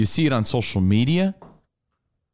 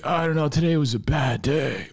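mock self-pity; 3 semitones higher than usual. Imitates kid fishing for attention.

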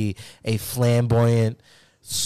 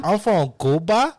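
put-on Cuban accent; 4 semitones higher, slower than usual. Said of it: "Looks like he says Cuba".

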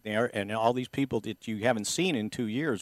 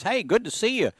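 high-pitched mild mock call-out; retold friendly yell; 10 semitones higher than usual. Host voicing a player yelling hello at him, mild mock yell. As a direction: imitate a friendly holler without much volume. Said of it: "he yelled at me again".

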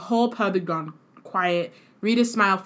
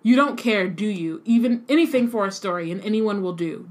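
angry through teeth; 4 dB louder than usual. Acted. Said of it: "through gritted teeth".

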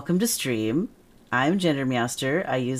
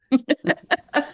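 a sudden high laugh bursting out; laugh, amused at the supercut idea; high bright laugh; 13 semitones higher, 4 dB louder than usual. Real, not acted. Host laughing at the idea of a supercut, high burst of laughter.

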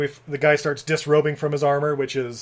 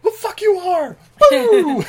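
high, loud jeering boo; shouting down a movie villain from the couch, high and loud; mock heckling yell; 8 dB louder, much slower than usual. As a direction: heckle the screen like a rowdy fan. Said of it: "And I'm like".

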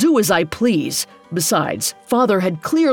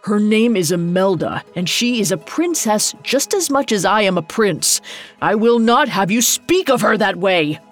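firm, slightly raised defiance; indignant prince; 3 semitones higher than usual. Acted. Prince rebuking his father for insulting Imelda, indignant. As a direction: stand up hotly for the woman you love.

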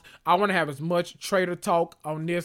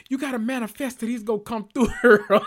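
laughing; 5 semitones higher than usual. Real, not acted. Laughing at Phaedra's act.

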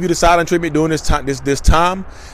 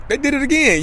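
mock outcry; 12 semitones higher than usual. Podcaster exposing an empty apology, in a high mock outcry. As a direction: pitch it way up and stretch the last word.

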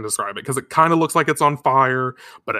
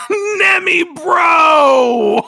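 shouting the name through laughter; laughing shout; 8 dB louder, much slower than usual. Real, not acted. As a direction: yell it while cracking up.

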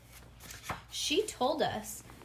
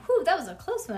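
relieved; 5 semitones higher, 7 dB louder, faster than usual. A narrator's reading. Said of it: "I said".

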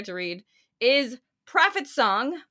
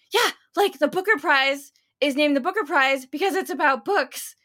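higher, louder, emphatic retelling; imitated know-it-all; 6 semitones higher, 5 dB louder than usual. Woman on a show making her point, mock-confident imitation. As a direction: insist on it with mock certainty.

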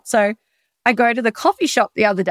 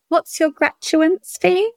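raised, slow mock masseuse voice; quoting the masseuse; 8 semitones higher, slower than usual. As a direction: imitate her puzzling question, higher and slow. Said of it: "the woman's like".

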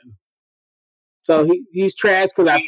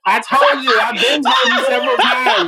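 raised, angry yell at him; retold yelling; 7 semitones higher than usual. Woman yelling at her hookup in the street.

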